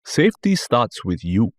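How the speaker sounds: slow, matter-of-fact driver; calm driver voice. Retold or imitated. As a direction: deliver it like a calm motto. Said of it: "the response is like".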